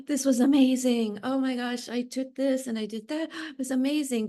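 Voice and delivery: gushing class-goer. Retold or imitated. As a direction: imitate someone raving after a class, lightly. Acting out gushing class-goers.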